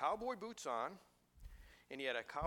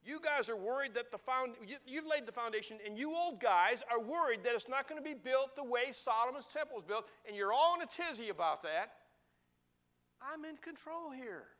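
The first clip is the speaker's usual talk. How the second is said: voicing God; 8 semitones higher, 7 dB louder than usual. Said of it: "And he's telling them".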